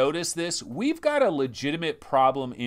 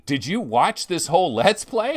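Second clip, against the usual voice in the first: louder, higher incredulous question; baffled, raised-voice retort; mock disbelief; 5 semitones higher, 6 dB louder than usual. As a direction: ask it as if you can't believe them. Acts out disbelief at commenters.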